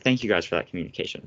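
quick sarcastic thanks. Retold or imitated. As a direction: rattle off insincere thanks, imitating your own retort. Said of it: "very sarcastically, so obviously sarcasm".

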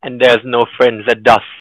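mock Russian accent. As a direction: answer the code phrase with a hint of Russian. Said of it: "ต้องแบบพูด พูดเป็นสำเนียง". (แกล้งพูดสำเนียงรัสเซียเบาๆ ช้าและดัง)

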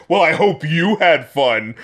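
slow mock-sarcastic lyric quote; dry, slow sarcasm. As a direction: sneer it out slowly. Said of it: "this sort of sarcastic".

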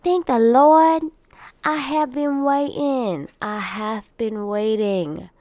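mock ecstatic thanks; exaggerated relief. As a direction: wail thanks to the heavens, slowly. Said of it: "I'm like".

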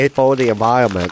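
imitated Vietnamese-accented raccoon; mock Vietnamese accent. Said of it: "You made him sound deaf and Vietnamese".

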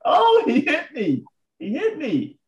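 high, drawn-out mock wail; retold screaming. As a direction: imitate an old lady crying out in alarm. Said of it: "she starts screaming".

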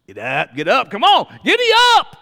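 high shouted giddy up; spurring a dead horse on; urging a horse. Pretend. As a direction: holler at the horse to get moving.

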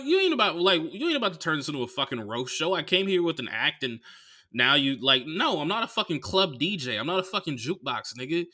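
worked-up comic protest; indignant refusal. Acted. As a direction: push back at a pushy requester. Indignant refusal of audience requests.

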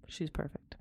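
soft breathy whisper of admiration; hushed reverence; awed whisper. Real, not acted. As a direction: whisper it as if moved. Awed by Hesse quote.

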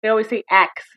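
"ax" with k before s; ask said as "ax". Retold or imitated. Quoting a guy's complaint, "ax" pronounced like the tool. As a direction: say "ax" in place of ask. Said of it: "Why can't black people say ask?".

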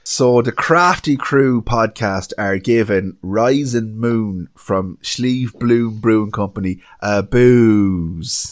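put-on slow, flat Offaly accent. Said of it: "with his best Offaly accent".

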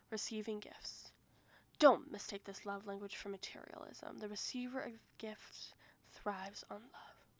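breathy whispered poetry reading; slam poetry voice. Pretend. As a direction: read it like a pretentious slam poet. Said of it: "I was using my poetry voice".

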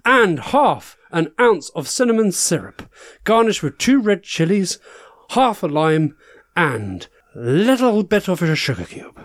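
campy drag queen. Acted. Host character continues the game.

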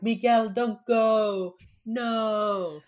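high, loud, drawn-out mock plea; pleading sister. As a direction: imitate a sister wailing after her brother. Retold sister begging brother to stay.

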